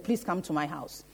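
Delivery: soft, low, humble request; kneeling plea. Retold or imitated. Retelling a father kneeling before Jesus, hushed humble plea. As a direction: plead softly, voice dropped low. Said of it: "went down on his knees and said".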